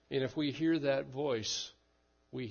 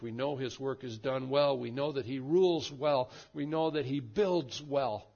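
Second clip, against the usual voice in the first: louder with each we know line; building refrain; 5 dB louder than usual. Acted. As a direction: stack the three claims, rising. Preacher's building triple refrain.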